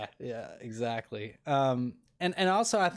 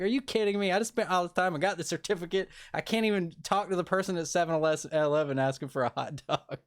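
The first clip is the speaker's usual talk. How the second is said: upset; 4 semitones higher than usual. Retold or imitated. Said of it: "I was so upset".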